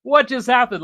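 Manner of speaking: high, loud astonished whoa; stunned whoa. Retold or imitated. Reacting in amazement to the mom's heartfelt thanks. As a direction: gasp it out, floored. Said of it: "I was like".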